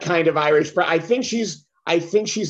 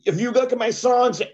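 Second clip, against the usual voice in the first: put-on bickering singer boyfriend; 6 semitones higher than usual. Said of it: "He's like".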